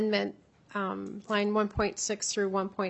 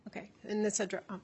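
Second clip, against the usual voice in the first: hoarse, voice nearly gone; lost voice; 7 dB quieter than usual. Real, not acted. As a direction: speak with almost no voice. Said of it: "I have no voice today".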